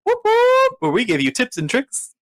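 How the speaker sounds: lightly hammed-up hotline ad read; ad announcer. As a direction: pitch it like a cheesy commercial. Mock credit hotline ad.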